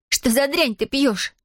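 high, drawn-out disgusted question; girl appalled by the stench. A narrator's reading. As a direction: ask in revulsion, slowly. Girl disgusted by creature's drink.

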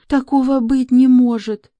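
high, loud flustered protest; flustered maid. A narrator's reading. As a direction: squeak out the denial.

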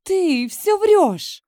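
high, loud, slow angry cry; the rival cries out, furious and loud; irritated cry. A narrator's reading. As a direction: shriek it back in denial. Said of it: "раздражённо вскрикивает девушка".

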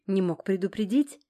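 understated angry reproach; resentful hiss. A narrator's reading. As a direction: reproach him with a touch of spite. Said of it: "прошипела со злой обидой".

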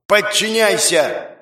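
high, slow drawn-out command; a victor binding his defeated rival; commanding order. Acted. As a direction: pronounce it like a binding spell. Hero commands his slave.

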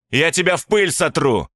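detective roars a threat through the glass; yelled. A narrator's reading. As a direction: roar it at him. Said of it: "заорал Владимир".

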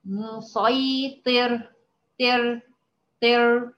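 مسيطر stretched out very slowly, syllable by syllable; teacher pronouncing مسيطر slowly for the class; slow demo. Shown as a demonstration. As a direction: draw out مسيطر so students can hear the ra. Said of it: "ننطقها الأول".

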